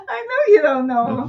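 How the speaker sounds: high-pitched, laughing through the words; real laugh breaking into the line. Real, not acted. Laughing along at co-host's answer.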